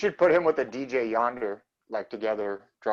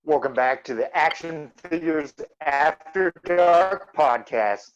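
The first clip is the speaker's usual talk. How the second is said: robot voice. Acted. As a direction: announce it like a stiff robot. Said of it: "you sound like a robot".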